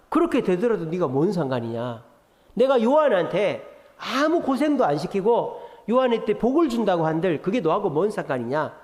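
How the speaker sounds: rebuking. Retold or imitated. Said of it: "호통을 치시는 거예요".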